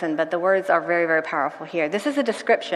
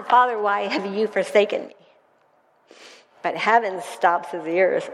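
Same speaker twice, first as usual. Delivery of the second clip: dramatic reading. Acted. Pastor reads dramatic passage.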